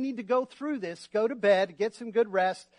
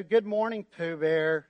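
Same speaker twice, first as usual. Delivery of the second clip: glum Eeyore; 5 semitones lower, slower than usual. Acted. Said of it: "said Eeyore glumly".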